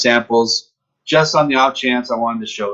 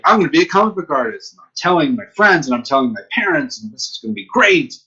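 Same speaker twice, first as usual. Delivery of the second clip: higher-pitched youthful enthusiasm, replayed; retold excitement; 5 semitones higher than usual. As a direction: announce the big news eagerly. Retold excitement at big career moment.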